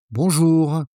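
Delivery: Bonjour said once, calm and even, falling; a calm, respectful Bonjour. Shown as a demonstration. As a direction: greet the waiter calmly. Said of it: "Say it once, calm".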